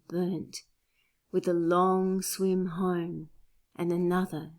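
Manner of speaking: measured, lyrical sonnet reading with pauses at line breaks; poetry reading. Acted. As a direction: recite a love sonnet, unhurried and composed. Reads own sonnet aloud.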